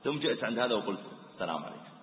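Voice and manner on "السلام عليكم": gentle greeting. Shown as a demonstration. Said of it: "أنت أثرت هذا الأسلوب".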